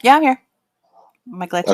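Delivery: choppy, breaking-up stream audio; robotic glitchy voice. Real, not acted. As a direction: voice glitching like a bad connection. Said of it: "Your voice is kinda robotic".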